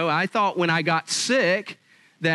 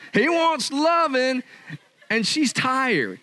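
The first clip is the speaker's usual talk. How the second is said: slow punchline; 7 semitones higher, slower than usual. Real, not acted. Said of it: "punchline delivered slowly".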